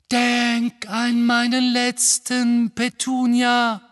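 slow, loud, high menace; terrible voice. Acted. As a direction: boom it out slowly with dread. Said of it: "Eine schreckliche Stimme".

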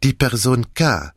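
put-on lightly French-accented detective; reassure, then reveal, lightly accented; Poirot. Detective calms Madame about her husband, light French accent.

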